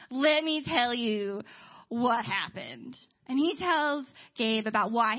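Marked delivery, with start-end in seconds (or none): 0.1-3.0 very slow, drawn-out delivery; slow, weighty repeat. Retold or imitated. Ray launching his story to Gabe, slowly and weightily. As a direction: stretch each word of "Let me tell you what happened".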